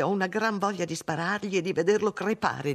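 high-pitched, heated venting; vengeful anger. A narrator's reading. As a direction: wish harm on a tormentor. Woman fuming about the caller. (rabbia vendicativa, voce acuta)

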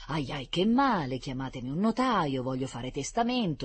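pained pleading. Acted. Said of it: "implorava il secondo".

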